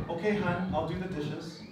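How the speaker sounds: mildly tender demo of agreeing; caring. Shown as a demonstration. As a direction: say it caringly, softening at the end. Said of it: "you can say it caringly".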